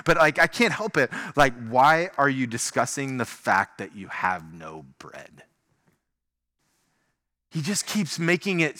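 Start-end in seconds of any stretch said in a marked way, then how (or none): 1.4-5.4 an exasperated, incredulous question; exasperated Jesus. Acted. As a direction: ask it like you can't believe they missed it. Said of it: "read it in a tone that's probably not accurate".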